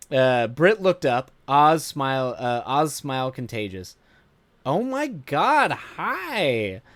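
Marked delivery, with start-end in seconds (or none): 4.7-6.8 put-on high, drawn-out Valley Girl gush. A narrator's reading. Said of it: "She played up her Valley Girl voice".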